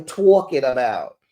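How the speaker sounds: New York "talking" with a rounded aw vowel; New York accent. Shown as a demonstration. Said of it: "my little New York accent".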